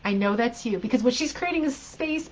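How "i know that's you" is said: louder, firm "Shut up, Linda"; firm mantra. Retold or imitated. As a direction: say it like you mean it to the gremlin. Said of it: "sometimes it works".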